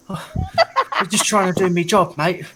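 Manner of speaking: put-on mild London geezer accent, slow; a lightly voiced cockney goblin, like Russell Brand; easygoing cockney drawl. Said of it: "When did Russell Brand become a goblin?".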